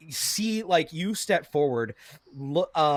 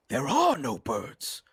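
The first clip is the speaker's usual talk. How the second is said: Yim; slower than usual. Acted. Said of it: "Yim says".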